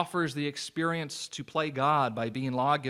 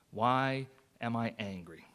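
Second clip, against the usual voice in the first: slow reflective question; 2 semitones lower than usual. Shown as a demonstration. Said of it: "pause for a moment and ask yourself".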